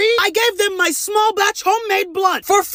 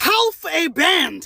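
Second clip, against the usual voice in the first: slow, shouted disbelief; outraged shout; much slower than usual. Real, not acted. To the friend, shouting about paying half a band. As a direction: drag it out in outrage. Shocked at the bill.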